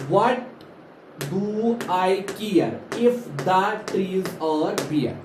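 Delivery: "what", "care" and "bare" stressed in a slow line; measured verse rhythm on "what do I care"; rhythmic stress. Shown as a demonstration. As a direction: recite slowly, leaning on "what" and "care". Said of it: "किसी चीज पे हम ज्यादा जोर देते हैं".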